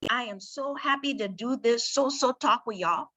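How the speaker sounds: light Liberian English accent. Shown as a demonstration. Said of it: "my Liberian English".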